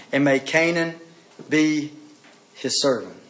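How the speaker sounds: measured, weighty Bible reading; scripture reading. A narrator's reading. Preacher reading Noah's prophecy to the congregation, scripture reading. Reads the scripture passage aloud.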